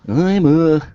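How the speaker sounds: high, slow, laughing dinosaur voice. Acted. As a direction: play the goofy dinosaur, slowly. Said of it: "do the funny voice".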